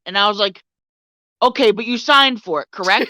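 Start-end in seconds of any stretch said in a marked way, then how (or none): 1.4-3.1 measured, mildly condescending question; lightly condescending, pausing before the tag question; patronizing. Retold or imitated. Store worker corners the customer, mildly patronizing. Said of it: "stop fucking patronizing me".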